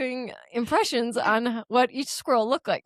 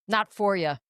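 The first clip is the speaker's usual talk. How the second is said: cowboy drawl; 2 semitones lower than usual. Retold or imitated. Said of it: "He's like".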